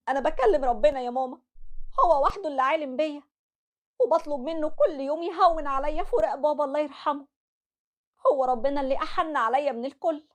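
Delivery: grieving daughter. Acted. Daughter telling her mother she prays over her father, sad. Leila on faith.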